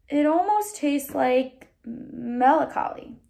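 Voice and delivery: slow, lightly voiced preacher musing sadly; a hint of the father, drawn out; slow melancholy musing; wistful preacher. Preacher's sad voiced line.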